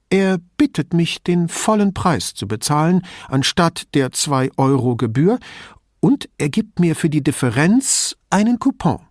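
put-on old lady, indignant and chatty; old signora. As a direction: play the suspicious old woman complaining about thieves.

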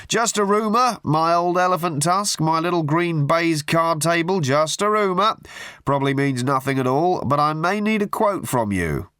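butter him up with absurd pet names; gushing hack journalist. A narrator's reading. Tabloid journalist gushing down the phone at Arthur. Murray's voice again.

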